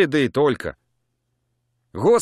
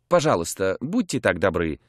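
softly; 4 semitones lower than usual. Acted. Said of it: "продолжала полковница мягко".

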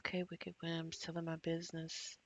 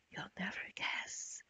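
whisper; 3 dB quieter than usual. Acted. Teasing reveal, whispered then repeated.

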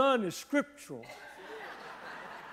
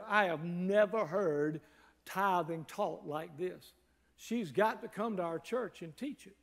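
deliberate retold declaration; 3 semitones lower, 5 dB quieter than usual. Recalls his own amazed declaration.

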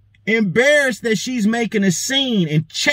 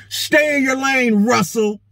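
higher, drawn-out mock scolding; retold snapping; 4 semitones higher than usual. Imitating the woman telling Russell off again, snapping. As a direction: cut him off with a slow, raised-pitch order. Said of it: "She says it again".

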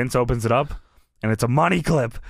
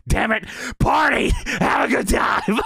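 high forced shout, slow on the end; mock shout; 7 semitones higher than usual. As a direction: bark it at the silent room. Vince shouting at the crowd.

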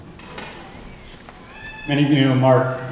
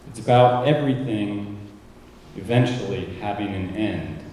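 measured spoken-word reading, long pauses between phrases; solemn tribute reading. Real, not acted. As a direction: read it like a litany, letting each item land. Reads own tribute aloud.

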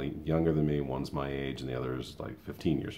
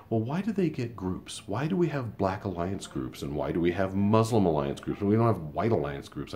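mocking coworker; 5 semitones higher than usual. Mimicking a coworker's complaint about alliance groups, mock whiny. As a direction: lightly parody her grievance. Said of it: "kinda chimed in and was like".

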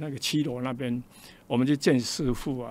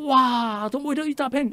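much higher, amazed exclaim; 10 semitones higher than usual. Retold or imitated. Recalling seeing the hospital site, amazed and high. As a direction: wonder at the huge plot. Amazed at large fenced land.

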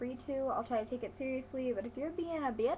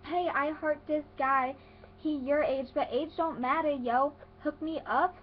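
texting little cousin; 3 semitones higher, 3 dB louder, slower than usual. Retold or imitated. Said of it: "she'll text me again saying".

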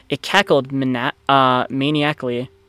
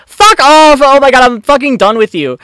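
very high, loud shout of exasperation; real frustrated yell; 11 semitones higher, 10 dB louder than usual. Real, not acted. Yelling at the game character, loud and frustrated. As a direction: explode at the screen, fed up.

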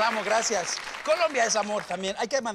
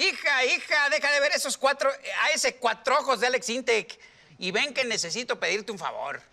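witch voice; 2 semitones higher than usual. Acted. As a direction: scold like a witchy mom. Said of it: "tiene voz de bruja la mamá".

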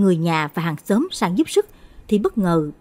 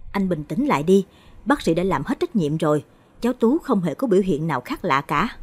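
trấn an. Acted. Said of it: "trấn an anh trai".

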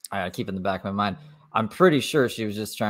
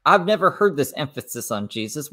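1 mocking her confusion; 5 semitones higher, 4 dB louder than usual. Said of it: "she's like".

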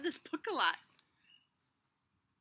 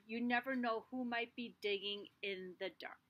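fearful hushed whisper; scared whisper. Acted. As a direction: whisper it like something lurks nearby. Seed fears the dark.

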